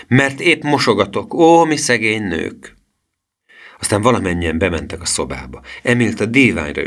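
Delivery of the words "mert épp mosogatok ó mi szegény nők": high, crowing mock lament. A narrator's reading. Girl busy washing dishes, crowing a mock complaint. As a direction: crow it, drawing out the complaint. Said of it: "kukorékolta".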